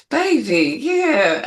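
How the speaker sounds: sweetly smiling retort, pitch lifting; with a smile. Retold or imitated. Telling someone off with a smile, sweetly. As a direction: say it through a smile, lifting at the end. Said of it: "with a smile, be like".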